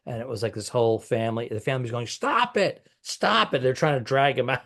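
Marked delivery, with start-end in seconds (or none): 2.1-3.6 imitated pleading. Family trying to drag out drunk heckler, imitated urgent plea. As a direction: mimic an embarrassed relative intervening.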